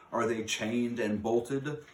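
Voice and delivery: slow, loud, menacing witch's demand; commanding witch. A narrator's reading. Grand High Witch checking the doors before her meeting, slow loud menace. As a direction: lean on every word like a tyrant. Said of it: "in a voice that filled the room".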